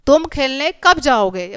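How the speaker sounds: slow, deliberate question built on कब; question tune. Shown as a demonstration. Teacher reading a question-mark example, questioning with weight on कब. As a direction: ask it carefully, leaning on कब. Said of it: "यहाँ पे पूछा जा रहा है".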